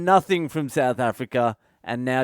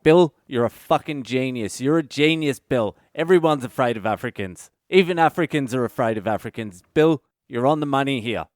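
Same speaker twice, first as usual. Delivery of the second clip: mock boss praise. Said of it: "And they were like".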